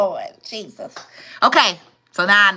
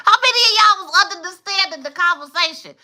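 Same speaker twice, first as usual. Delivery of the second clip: laughing disbelief; 10 semitones higher than usual. Real, not acted.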